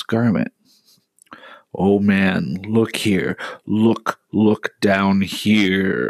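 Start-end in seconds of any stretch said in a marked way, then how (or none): 1.7-6.1 slow, drawn-out ghostly call; exclaiming ghost. Acted. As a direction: call him to look, slowly. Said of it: "exclaimed the ghost".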